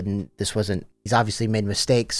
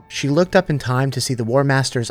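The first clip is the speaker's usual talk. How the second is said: reading an excerpt aloud. A narrator's reading. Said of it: "here's a little excerpt".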